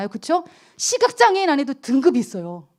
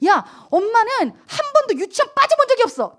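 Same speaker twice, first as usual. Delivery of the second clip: high, proud scolding mother voice; boastful scolding mother; 10 semitones higher than usual. Retold or imitated. Pastor mimicking herself bragging to her daughter, high and proud. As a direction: lecture the child from way up high.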